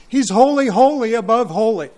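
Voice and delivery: "holy" rising and stressed each time; emphatic holy above holy. Shown as a demonstration. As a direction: build the "holy" repetition. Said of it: "repetition is carried another step further".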